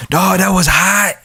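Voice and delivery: high put-on Mexican-take-on-Black accent. Imitating people who praise lyrics, high put-on Mexican-take-on-Black accent. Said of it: "I do this, like, kinda, like, accent".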